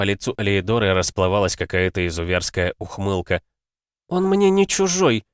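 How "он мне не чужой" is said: mocking sneer. A narrator's reading. Cruel grin, mocking.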